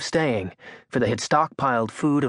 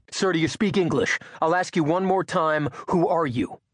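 nervous, arrogant soldier; 4 semitones higher than usual. Acted. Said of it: "nervousness in the soldier's voice, but also the hint of arrogance".

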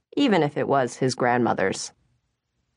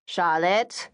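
mother calling Charlotte. Acted. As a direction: coax your daughter by name. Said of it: "their mother kept on".

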